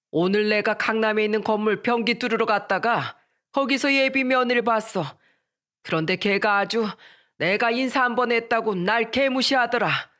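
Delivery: indignant father, pitch climbing on endings; mildly angry complaint to your son. Acted. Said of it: "화난 목소리로 말씀하셨어요". (무시당해 화난 아버지의 말투)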